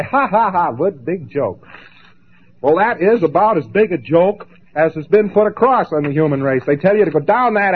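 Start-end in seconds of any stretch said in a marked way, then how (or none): 0.0-1.7 mock laugh. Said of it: "stir the body up with your toe and say".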